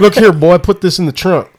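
hammed-up character ordering someone about; acted bossy order. Quoting the trunk bit to his co-host, mock bossy.

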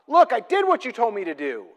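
almost yelling in frustration; Moses. Acted. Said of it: "He's almost yelling at God".

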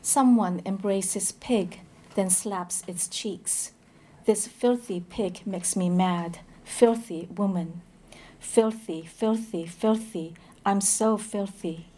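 grave, deliberate recital of a dark poem; poetry reading. Acted. Translator reads the pig poem to the audience, grave poetry recital. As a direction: give each short line its own weight.

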